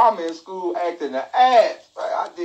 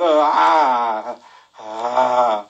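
fake crying; 6 semitones lower, much slower than usual. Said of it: "keep your crying going".

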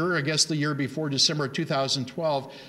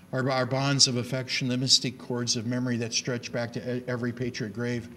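recitation. Shown as a demonstration. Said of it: "And he says to the southern states".

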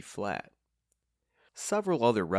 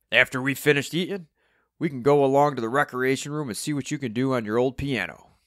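loud, higher character announcement; announcing; 5 semitones higher, 7 dB louder than usual. A narrator's reading. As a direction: announce it to the whole table. Steve announces plan to the table.

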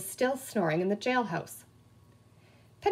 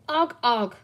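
offhand sheriff; 4 dB louder than usual. A narrator's reading. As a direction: grunt it without looking up. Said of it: "said the sheriff, not looking up".

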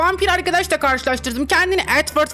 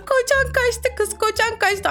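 higher mocking singsong; 8 semitones higher than usual. Streamer gleefully taunting a girl, high mocking singsong. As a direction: tease it up high and drawn. Teasing chat line singsong.

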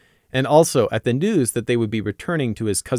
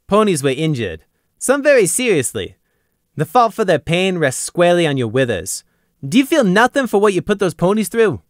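higher, louder grave accusation; serious pressure; 7 semitones higher, 3 dB louder than usual. A narrator's reading. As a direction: lean on his conscience. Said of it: "Gloom asked seriously".

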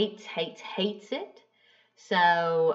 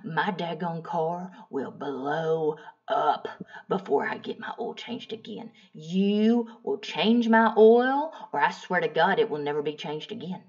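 furious fit; 4 semitones lower than usual. Retold or imitated. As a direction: start seething and whispery, then lay down the law. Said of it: "I throw a grade A fit".

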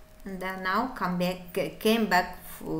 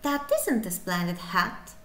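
active contraction; 2 semitones lower, 3 dB quieter than usual. Shown as a demonstration. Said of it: "you should be very active".

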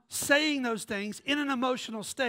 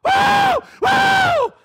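shrill joyful whoops, much higher and louder; excited whoops; 15 dB louder than usual. Real, not acted. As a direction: whoop with abandon. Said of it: "Every time I get excited".

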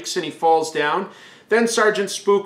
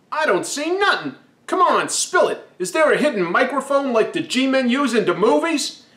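put-on kid voice; 5 semitones higher than usual. Kid Jerry doubting the ghost.

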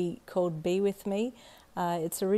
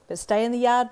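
mum calling out; 5 semitones higher, 7 dB louder than usual. Acted.

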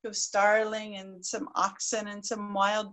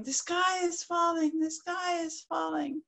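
calling out warning; 7 semitones higher, 4 dB quieter than usual. Acted. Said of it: "calling out the warning".

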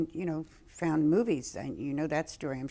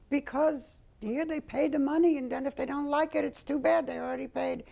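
put-on high, loud Jewish grandmother accent; 9 semitones higher, 5 dB louder than usual. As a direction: voice the old Jewish mother's accent. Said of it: "She had a Jewish accent".

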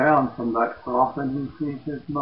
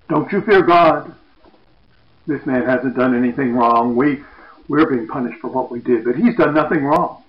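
loud rebuke; 6 dB louder than usual. Retold or imitated. Second criminal rebukes the other.

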